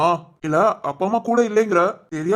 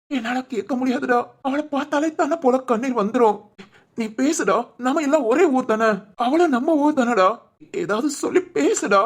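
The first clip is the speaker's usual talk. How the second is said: raised, crying voice begging for help; tearful pleading; 3 semitones higher than usual. Acted. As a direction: implore a friend through tears. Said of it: "நின்னு அழுதுகிட்டு இருக்க". (அழுகை கலந்த கெஞ்சல்)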